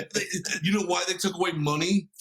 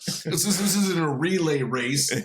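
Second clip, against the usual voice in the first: lightly voiced comic rant, insistent; Bill Burr rant. Copying a comedian's rant about condiments, mock indignant. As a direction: hammer the hot dog line like a stand-up bit. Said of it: "I'm gonna copy Bill Burr".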